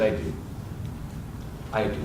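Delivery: low, soft reassurance; reassuring. Acted. Husband promising his worried wife he'll stay mounted, reassuring. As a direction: settle the voice down to soothe.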